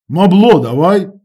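loud, slow firm command; insist, no room to refuse; firm repeat. A narrator's reading. Seva repeating his demand to Punk, firm loud command. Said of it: "твердо повторив Сєва".

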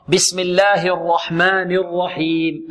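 slow recitation, heavy ra in الرحمن, light ha; correct tajweed. Shown as a demonstration. Teacher shows students the basmala, slow careful tajweed. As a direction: recite الرحمن الرحيم slowly with full ra and thin ha. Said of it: "هكذا".

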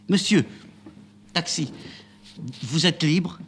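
high, loud cry for a taxi; calling out. Acted. Amanda runs to the taxi, calling the driver loudly. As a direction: hail the taxi desperately.

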